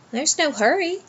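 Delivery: lazy, through a yawn. A narrator's reading. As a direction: say it mid-yawn, sleepy. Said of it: "with a huge yawn".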